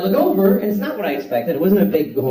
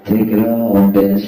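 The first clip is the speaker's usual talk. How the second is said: a loud gruff yell while peeing; loud grunting yell; 2 semitones lower, 6 dB louder, slower than usual. Shown as a demonstration. Comedian showing his pee noise, a gruff yell. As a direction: bark it out like straining at the toilet. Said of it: "the noise I used to make when I come".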